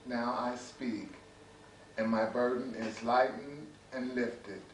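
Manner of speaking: measured poetry reading with deliberate pauses; poem recitation. Acted. Poet reading to an audience about brothers loving brothers, measured recitation. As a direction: recite line by line, letting each phrase settle. Reads another poem aloud.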